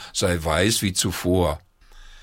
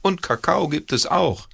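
calling out; 8 semitones higher than usual. A narrator's reading. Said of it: "rief die Oma ins Bad".

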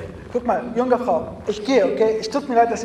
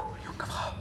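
whisper; 15 dB quieter than usual. Acted. Trying to wake her.

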